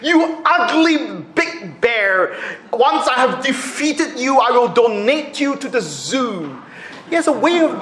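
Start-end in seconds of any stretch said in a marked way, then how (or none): 0.0-6.6 slow, mocking taunt. Boxer taunting Sonny Liston, mock scream. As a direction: taunt the opponent lightly. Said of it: "he would scream at him".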